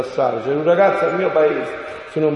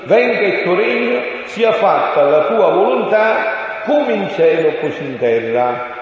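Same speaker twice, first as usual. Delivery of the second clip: solemn prayer; 4 semitones higher, 4 dB louder, slower than usual. Acted. Quoting the Lord's Prayer solemnly.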